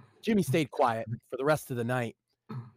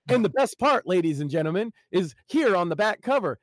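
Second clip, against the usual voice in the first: lightly voiced mocking streamer; 3 semitones higher, 4 dB louder than usual. Stalker mocking to audience.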